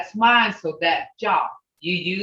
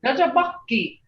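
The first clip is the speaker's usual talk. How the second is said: higher-pitched, demonstrated mad tone; 4 semitones higher than usual. Shown as a demonstration. Teacher showing class how to say they're mad, demonstrated mad tone. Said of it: "that tone, you can say this".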